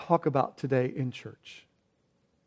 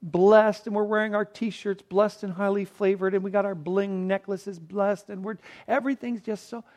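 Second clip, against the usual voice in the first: mock blessed talk; 4 semitones higher than usual. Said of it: "go around thinking about".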